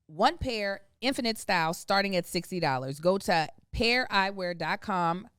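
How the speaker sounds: upbeat sponsor read, slowing on the web address. Acted. Host reading the sponsor ad, upbeat. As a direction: sell the glasses to the podcast listeners.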